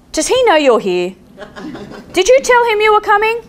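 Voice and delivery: high, laughing playful question; teasing laugh. Retold or imitated. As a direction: tease her while laughing.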